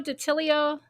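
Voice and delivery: Datilio as "duh-TILL-ee-oh"; pronunciation guess. Shown as a demonstration. Trying a chatter's surname, guessing Datilio with "lee-oh". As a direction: add an "ee" before the final O of Datilio. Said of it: "or is that Datillo".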